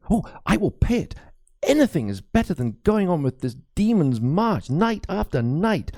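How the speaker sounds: lightly voiced anxious old priest; a worried cleric confiding a ghost story; frightened priest. Priest confides his fears to Crispin, lightly voiced and uneasy. Priest eagerly agrees to pay.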